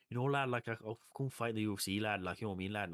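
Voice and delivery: hammed-up Liverpool accent; Paddy Pimblett. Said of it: "what's Paddy Pimblett like?".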